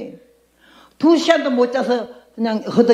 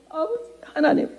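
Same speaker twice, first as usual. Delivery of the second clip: soft, pleading call to God; hushed prayer; 5 semitones higher, 7 dB quieter than usual. Retold or imitated. 처음 기도하며 하나님을 부르는 환자, 간절하고 조용하게. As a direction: whisper it like a desperate first prayer. 하고 막 기도를 했어요.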